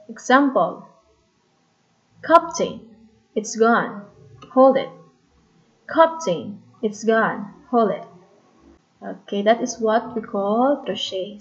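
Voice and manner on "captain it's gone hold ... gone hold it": "Hold it" in separate falling beats, first word strong; stressed then unstressed. Shown as a demonstration. Teacher giving a meter example, "Captain" stressed on first syllable. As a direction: punch the first beat of "Captain", drop the second. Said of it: "stress and unstressed".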